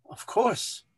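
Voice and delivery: gentle, understanding "of course". A narrator's reading. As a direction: say it kindly, showing you understand. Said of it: "in an understanding tone".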